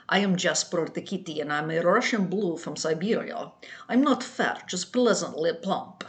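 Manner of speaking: light mock Russian accent for the cat; a playful Russian cat voice to amuse the kids; a hint of Russian accent. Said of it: "I started doing a Russian accent".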